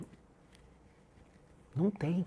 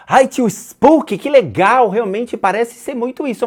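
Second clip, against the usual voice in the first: mocking fan voice; 10 semitones higher, 7 dB louder than usual. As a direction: squeal it like a naive fan. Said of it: "chegam pra mim no canal e falam".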